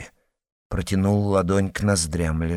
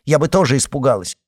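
indignant, quick; 5 semitones higher, 4 dB louder, faster than usual. A narrator's reading. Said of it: "возмутилась Татьяна".

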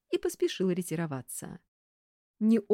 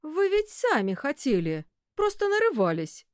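insistent man; 9 semitones higher, 4 dB louder than usual. A narrator's reading. Director insists to secretary, raised voice. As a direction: push back hard.

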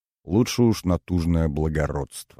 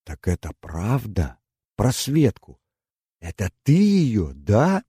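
задушевный вскрик; 3 semitones higher than usual. A narrator's reading. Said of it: "крикнула она задушевно".

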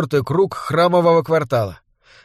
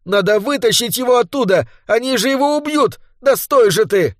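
angry shout; 7 semitones higher than usual. A narrator's reading. Son begging mother to save him, shouted high. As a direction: yell at mother to stop and go back. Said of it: "кричал он, еле сдерживая злые слёзы".

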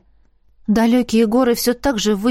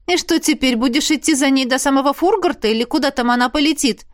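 higher, mocking sarcastic question; 4 semitones higher than usual. Arnella needling Roderick about the butterfly, sarcastic. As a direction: needle him. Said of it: "язвительно спросила я".

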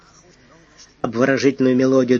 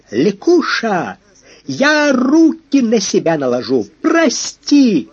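much higher and louder, building to a wail; desperate cry; 9 semitones higher, 5 dB louder, slower than usual. A narrator's reading. Actor crying after the departing train, desperate. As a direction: cry out from the platform in despair. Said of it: "донёсся отчаянный крик".

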